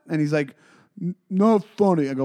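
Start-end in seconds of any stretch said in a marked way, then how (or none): 1.0-2.1 imitated heckler.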